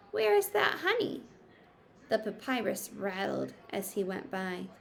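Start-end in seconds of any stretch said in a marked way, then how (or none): 0.1-1.2 muttering. Acted.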